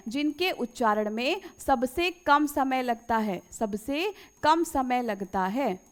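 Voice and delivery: slow, word by word for copying; measured dictation pace. Shown as a demonstration. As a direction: say it slowly so they can write it down. Dictating definition slowly to students.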